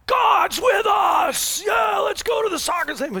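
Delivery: high, loud, slow mock cheer; imitating excited crowd. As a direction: whoop it like a thrilled crowd leaving church. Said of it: "they're like".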